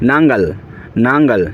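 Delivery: teacher repeating নাঙ্গাল; Malayalam word demo. Shown as a demonstration. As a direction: model নাঙ্গাল twice for repetition. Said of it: "Malayalam ভাষায় বলে নাঙ্গাল".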